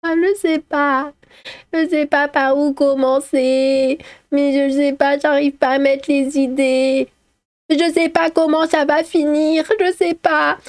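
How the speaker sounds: high, drawn-out whiny singsong; mock helpless storyteller. Streamer mocking long story videos, high whiny imitation. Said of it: "En, en mode faire".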